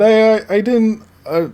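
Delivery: high, stammering mock panic; panicked sister. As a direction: stumble over the words as if caught out. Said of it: "And she said".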